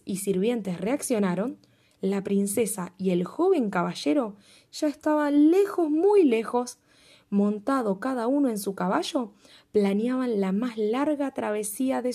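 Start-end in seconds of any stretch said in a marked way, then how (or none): 5.5-6.8 muy lejos slow, high and loud; drawn-out far away. A narrator's reading. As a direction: stretch muy lejos out slowly. Storyteller stretches distance.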